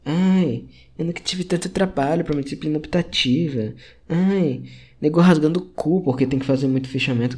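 voz chorosa imitando colega que reclama; imitando aluno reclamão. Retold or imitated. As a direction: debocha dos colegas chorões. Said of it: "Eles fazem só reclamação vazia". (imitação de universitário reclamando)

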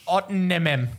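Ottenhemem, Memento sounded out in reverse; backwards speech. Shown as a demonstration. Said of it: "How do you say it backwards?".

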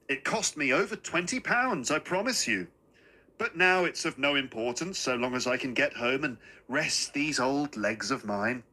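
lightly voiced old gentleman; a hint of a tired, courteous old man; little old man, persuasive. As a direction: coax her politely to accept. Little man presses umbrella deal.

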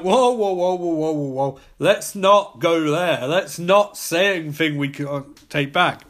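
hurried whoas, then slow emphatic warning; mock alarm. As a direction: talk someone down from a touchy subject, hammed-up. Acts out alarmed reaction to Hiroshima mention.

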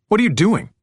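high, loud indignant question; snapping. A narrator's reading. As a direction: snap in angry disbelief. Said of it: "he snapped".

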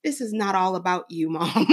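a hint of a sassy little boy talking back; quoting son. Mom retelling son's comeback, lightly voiced. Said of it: "that little person said to me".

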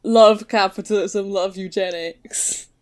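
lightly British, slowing on the last phrase; a mock-British slogan; British accent. Joking about what British people love, British accent. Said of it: "That didn't need to be the British accent".

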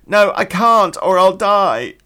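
high, loud mock-panicked refusal; hammed-up high wail of protest; panicked blonde. Blonde refusing the hairdresser, mock panic.

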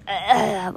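short imitated gag noise; mock gagging. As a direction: pretend to gag on a finger. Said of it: "you're, like, gagging".

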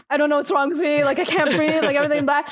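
mildly panicked retelling; imitated hyperventilating panic. Telling a friend they can't breathe, mild mock panic. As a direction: act out a touch of breathless worry. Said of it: "I started hyperventilating".

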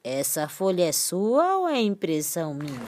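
soft, low punchline voice; softly voiced printer; printer's voice. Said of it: "o que que uma impressora disse pra outra". (voz de impressora)

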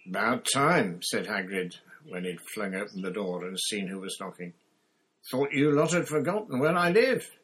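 big loud gruff greeting; booming giant. Acted. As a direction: boom it out like a big friendly giant. Hagrid greets them.

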